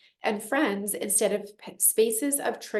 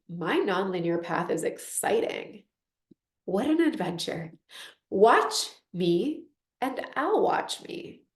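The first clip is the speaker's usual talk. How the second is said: confident self-talk. Retold or imitated. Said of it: "self-made are like".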